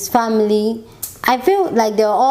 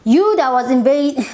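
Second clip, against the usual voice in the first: sarcastic; 4 semitones higher than usual. Retold or imitated. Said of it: "And I'm like".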